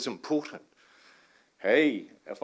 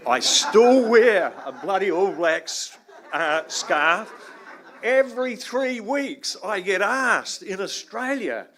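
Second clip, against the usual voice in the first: laughing; 8 semitones higher, 9 dB louder, slower than usual. Real, not acted. Joking about Kiwi roots.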